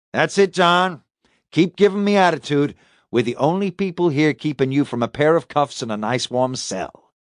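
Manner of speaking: threatening detective. Acted. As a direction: warn the suspect to drop the attitude.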